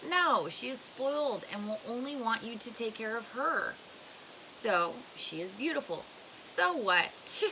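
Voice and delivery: lightly voiced old woman, firm and dismissive; old fortune teller. Madame Zeroni scorning Elia's love, lightly voiced and firm.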